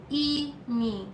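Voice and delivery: IMI split into I and mi; teacher's syllable-by-syllable Imi; two separate syllables. Shown as a demonstration. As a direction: say Imi as two drawn-out beats. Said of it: "two syllable".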